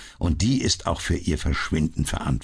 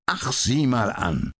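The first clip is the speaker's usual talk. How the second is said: interested; 7 semitones higher than usual. A narrator's reading. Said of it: "plötzlich erwachte sein Interesse".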